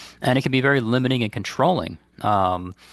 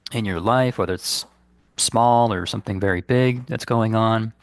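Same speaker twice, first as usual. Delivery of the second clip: calm, unhurried guidance with long pauses; guided meditation; 2 semitones higher than usual. Real, not acted. Meditation teacher guiding listeners to release guilt, calm and unhurried. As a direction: lead listeners gently inward, leaving space between phrases.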